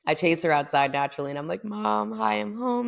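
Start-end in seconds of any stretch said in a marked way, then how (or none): 1.6-2.9 high-pitched retold hello; excited greeting. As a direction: call it up high to Mom. Retold greeting to startled mother.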